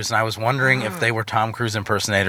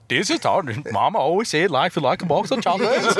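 Forrest Gump impression; 5 semitones higher than usual. Mocking Tom Hanks's accent to friends, high laughing Gump voice. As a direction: mimic Tom Hanks as Gump, giggling through it. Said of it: "the Swedish chefs in Forrest Gump".

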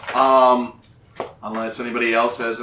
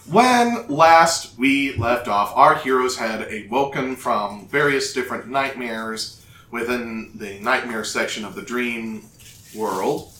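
put-on old radio drama narrator. A narrator's reading. Restarts the recap.

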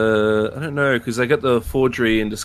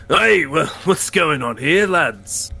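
louder, higher character voice hailing the table; hearty greeting; 6 semitones higher, 5 dB louder, slower than usual. Acted. Stranger to gamblers at dice, hearty hail. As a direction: breeze up and hail the players.

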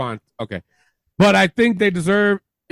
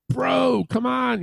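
bad Canadian accent; 5 semitones higher, 5 dB quieter, slower than usual. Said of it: "it's a bad impression of Christian".

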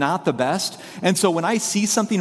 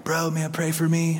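lightly imitated Valley bro; a hint of Valley dude, understated; 3 dB quieter than usual. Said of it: "valley voice".

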